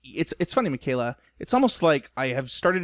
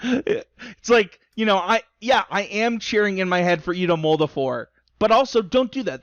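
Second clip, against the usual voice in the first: laughing through words; 6 semitones higher, 4 dB louder than usual. Real, not acted. Laughing at his own confession.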